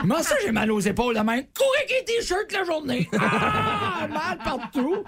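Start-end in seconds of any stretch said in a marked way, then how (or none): 1.5-5.0 high whiny complaint. Retold or imitated. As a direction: whine high about aches. Mocking jogger complaints.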